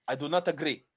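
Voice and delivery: lightly put-on North African accent. Host voicing disagreeing North Africans, light mock North African accent. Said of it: "the people in North Africa will be like".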